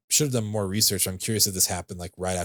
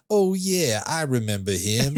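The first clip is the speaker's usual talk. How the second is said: put-on thick New York accent, pitched up and louder; mock thick New York accent, like a dock witness on Law and Order; 6 semitones higher, 4 dB louder, slower than usual. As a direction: ham up a New York street guy. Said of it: "this super thick New York accent".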